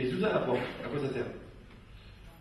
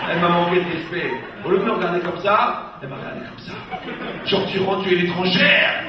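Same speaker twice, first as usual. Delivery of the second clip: mock outraged complaint; 2 semitones higher, 7 dB louder than usual. Wife complaining to the rabbi about her mother-in-law, mock outraged. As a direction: act out the wounded daughter-in-law, half laughing.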